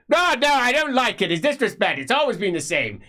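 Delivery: high, loud tirade; high and loud, building fury; ranting old magister. Acted. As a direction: berate the student for disrespect. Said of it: "Tuberman refuses to calm".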